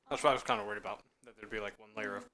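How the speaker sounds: talking with a mouthful of food; chewing while speaking; mouth full. Real, not acted. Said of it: "sorry talking with my mouth full".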